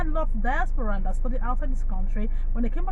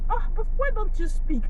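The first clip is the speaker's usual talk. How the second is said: quoting surprised classmate; 12 semitones higher than usual. Retold or imitated. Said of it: "He said".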